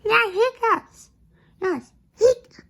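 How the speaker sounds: high, loud wailing dismay; dismayed cry. Acted. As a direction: wail it in despair. Despair at hiccups returning.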